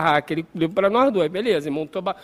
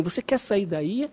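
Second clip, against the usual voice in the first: slow, softer little voice; lightly voiced elf; 6 dB quieter, slower than usual. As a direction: offer help slowly and softly. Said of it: "escutou uma vozinha assim".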